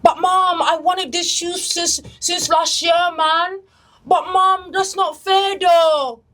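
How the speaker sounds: a hint of a sulky London kid begging; UK kid nagging mom. Teen pestering mom for shoes, mildly whiny. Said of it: "These are the U K kids".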